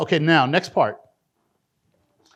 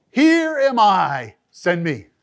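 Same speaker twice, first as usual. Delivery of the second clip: louder, slow fervent offer; fervent cry; 5 dB louder, much slower than usual. Acted. Preacher crying out Isaiah's answer, loud and slow. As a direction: cry it out with conviction. Impassioned response.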